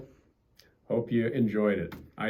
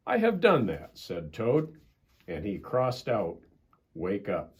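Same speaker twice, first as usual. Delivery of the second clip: gentle bedtime storybook reading; storybook narration; reading to children. A narrator's reading. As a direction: read it like a bedtime story for kids. Reads a children's story aloud.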